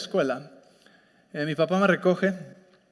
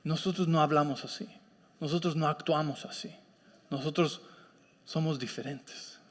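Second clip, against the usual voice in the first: lightly voiced calm leader, lower and softer; imitating a father's measured correction; fatherly guidance; 4 semitones lower, 6 dB quieter than usual. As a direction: quietly lay down the family rule. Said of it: "necesita alguien que te diga".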